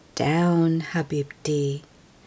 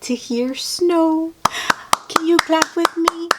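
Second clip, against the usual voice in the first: cheerful cheer; 11 semitones higher, 4 dB louder than usual. Real, not acted. Cheerful ending for children.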